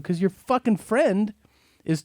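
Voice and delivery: high, drawn-out mock indignation; retold exasperation. Retold angry answer to the mother.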